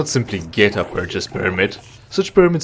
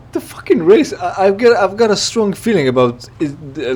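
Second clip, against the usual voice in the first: higher and louder, fading down; worked-up rant; 10 semitones higher, 4 dB louder than usual. Real, not acted. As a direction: burst out, then settle. Excited rant about racist NPC.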